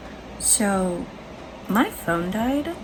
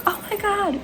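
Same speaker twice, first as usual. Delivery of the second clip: high-pitched excited exclamation; geeking out; 12 semitones higher than usual. Retold or imitated. Reader retelling seeing the King of Cups, geeking out. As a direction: relive the thrill, pitch jumping way up. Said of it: "'cause I was geeking out over".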